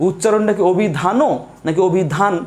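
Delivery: slow, weighing অভিধানও against অভিধান; slow side-by-side of অভিধানও and অভিধান; two pronunciations compared. Shown as a demonstration. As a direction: lay out the two sounds of অভিধান slowly. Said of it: "Definitely উচ্চারণটা অভিধান".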